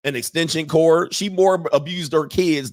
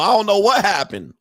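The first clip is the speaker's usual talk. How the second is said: mock helpless son; 6 semitones higher, 4 dB louder than usual. Son calling him in a panic.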